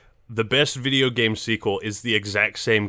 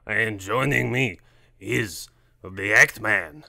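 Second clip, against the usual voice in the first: dramatic intro; slower than usual. Pretend. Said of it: "we entered an Ackman video there".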